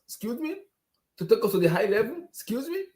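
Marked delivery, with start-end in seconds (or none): 0.1-0.6 incredulous. Real, not acted. Outraged fan mocking the club. 2.3-2.8 incredulous. Real, not acted. Outraged fan mocking the club.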